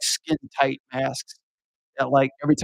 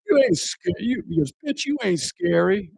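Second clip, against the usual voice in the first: mock-angry heckler voice; 6 semitones higher than usual. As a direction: spit it back at the scarer. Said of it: "He's like".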